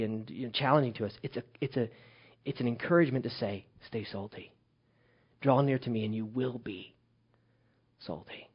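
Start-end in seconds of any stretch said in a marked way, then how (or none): 3.9-8.5 gentle soft quote. Retold or imitated. Quietly voicing God's encouragement.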